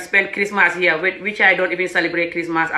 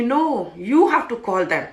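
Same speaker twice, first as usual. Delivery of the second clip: mock indignant husband; imitating stubborn husband; 6 semitones higher than usual. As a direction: scold stubbornly, breaking into laughter at the end. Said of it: "He was very stubborn".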